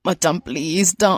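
slow, low plea at first; pleading. Acted. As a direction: beg a friend to stop. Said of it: "கெஞ்சி கேக்குறேன்".

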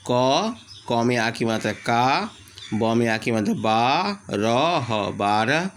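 slow, spelling-out dictation; sounding out words. Shown as a demonstration. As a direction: sound out each letter slowly. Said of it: "लिखो।".

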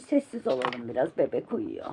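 hushed, soft voice; quiet at night. Real, not acted. Baby asleep, hushing the child.

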